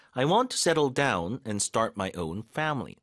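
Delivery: very slow, stress on want; slow model sentence. Shown as a demonstration. Teacher repeating the example slowly. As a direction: read it slowly, leaning on want. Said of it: "이러면".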